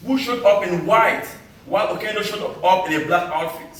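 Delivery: measured spoken-word delivery with deliberate pauses; poem recital. Acted. Poet to summit crowd recalling the long trek, declaimed poem recital. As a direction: declaim it line by line to an audience.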